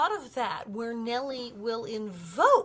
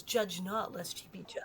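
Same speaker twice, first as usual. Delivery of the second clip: pious; 4 semitones lower, 6 dB quieter than usual. Retold or imitated. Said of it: "and then goes".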